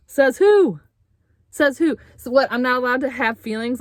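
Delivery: laughing, high scoffing says who; incredulous outraged scoff; indignant retort. Real, not acted. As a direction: scoff back high and loud in disbelief.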